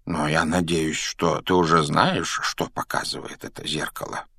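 lightly voiced calm elder; inquiring professor. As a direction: ask gently and unhurriedly. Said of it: "поинтересовался Дамблдор".

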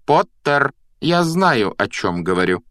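sharp, final schoolmistress; cutting off. A narrator's reading. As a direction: shut the argument down. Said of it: "отрезала профессор МакГонагал".

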